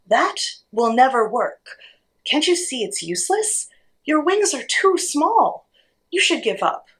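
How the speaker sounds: high, scoffing eagle call; mild storybook shout; shouted scorn. A narrator's reading. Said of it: "one of the eagles shouted".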